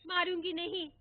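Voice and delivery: mother, irritated, answering father loudly; irritated retort. Retold or imitated. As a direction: hit back like an annoyed mother. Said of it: "माँ चिढ़कर जवाब देती".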